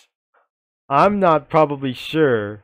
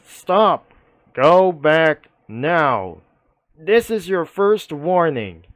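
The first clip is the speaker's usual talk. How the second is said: loud, higher barked warning at the border; police yelling; 3 semitones higher, 4 dB louder, slower than usual. Retold or imitated. Police officer warns the cyclist away, loud yell. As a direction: yell it like a cop turning someone away. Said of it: "the police quotes like this that yells".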